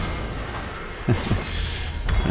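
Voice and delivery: pained breathy laugh; laughing through pain; painful laugh. Real, not acted. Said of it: "that's a painful laugh that I just did".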